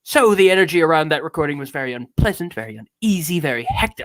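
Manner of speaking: lightly theatrical, mannered reading with punched key words; grand affectation on a confessional monologue; affected accent. Acted. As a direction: read it as a self-important eccentric artist. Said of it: "this accent, this affectation".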